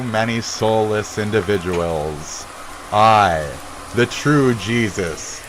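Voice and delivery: slow, lightly voiced biblical decree; hammed-up Jesus pronouncing doom, only a hint of a voice; a touch of mock-solemn prophet, slowly; mock vengeful Jesus. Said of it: "I'm the A K Jesus that's gonna come back".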